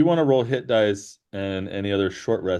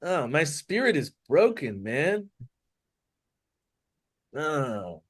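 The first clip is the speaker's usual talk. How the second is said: broken-spirited lament; 3 semitones higher than usual. Acted. Character plays broken-spirited.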